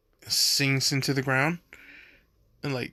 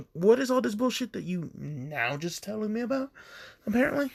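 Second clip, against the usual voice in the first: high, hammed-up scolding rant; high mock-angry mom rant; mad mom rant; 5 semitones higher than usual. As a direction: tear into your son for hiding things. Mother scolds son angrily.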